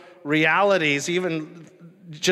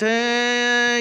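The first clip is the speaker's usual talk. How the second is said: imitated tuning whine; 8 semitones higher, 4 dB louder than usual. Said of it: "you're tuning it just".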